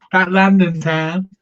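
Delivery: slow London accent. Shown as a demonstration. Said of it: "That's my London accent".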